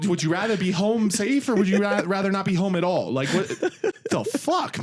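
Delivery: high, heated retold rant; exasperated argument. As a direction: argue it insistently, pitched well up. Retold quarrel over driving slow.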